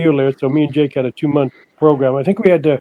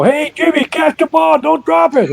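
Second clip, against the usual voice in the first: mocking taunt; 13 semitones higher than usual. Taunting Jimmy in the ring.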